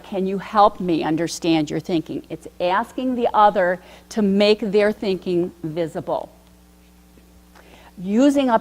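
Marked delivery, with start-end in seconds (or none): 0.0-2.2 approachable invitation. Shown as a demonstration. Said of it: "an invitation like".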